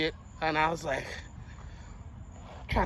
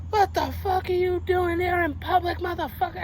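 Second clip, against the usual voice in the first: mock screaming redneck; 10 semitones higher than usual. Truck driver confronting the man in public, mock scream. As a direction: imitate an irate man hollering, stretching the words. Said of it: "He was screaming at him".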